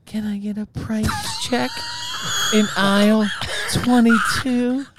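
store announcer. Pretend. Mock store intercom announcement.

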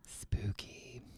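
soft, eerie whisper; spooky whisper. Pretend. Storyteller teasing her terrified co-host, spooky whisper. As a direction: whisper it to give her chills.

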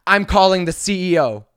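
entitled passenger demanding the CEO; indignant threat. Retold or imitated. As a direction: threaten like a spoiled customer. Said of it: "And she goes".

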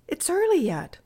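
put-on a high, breezy boyish reply; cheerful. A narrator's reading. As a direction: brush off the scolding lightly. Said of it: "said Bertie cheerfully".

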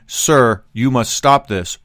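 firm, pointed "Sir"; controlled demand with veiled contempt; passive-aggressive politeness. Shown as a demonstration. Showing what he said to the passenger, passive-aggressive. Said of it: "could have easily replaced the sir".

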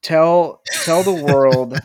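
dramatic proclamation. Acted. Mock dramatic grief prompt.

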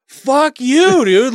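loud, high, angry retort; angry shout. Retold or imitated. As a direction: yell it at the pest. Imagined outburst at coworker.

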